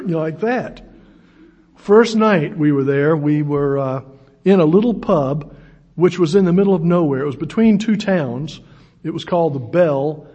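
ordinary talk, nothing marked

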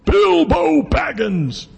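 booming wizard roar, high, loud and drawn out; big booming voice. Acted. Wizard overpowering angry Bilbo, big booming voice. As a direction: boom it slowly as a wizard grown tall. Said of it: "in this big booming voice".

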